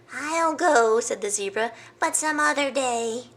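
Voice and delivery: high zebra voice; zebra's excuse. Acted. Zebra putting off the trip, high. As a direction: dodge it breezily.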